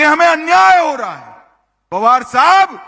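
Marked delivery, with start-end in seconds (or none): 0.0-1.4 loud, high call to the crowd; shouted political oratory; raised rally shout. Real, not acted. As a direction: throw the words out high over a crowd. Rally speaker mocks opponent's complaint loudly.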